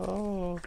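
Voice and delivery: soft high sad "oh"; small weepy moan from a sad worm; mock crying, high and soft. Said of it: "They go".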